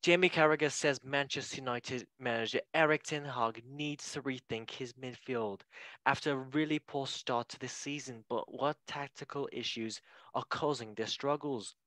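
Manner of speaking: lightly put-on news reporter delivery. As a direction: read it like a mock headline. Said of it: "Let me do my reporter voice".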